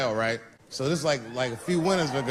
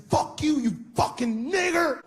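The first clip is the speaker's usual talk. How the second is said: mock angry yell; 11 semitones higher, slower than usual. Guy yells slur from car.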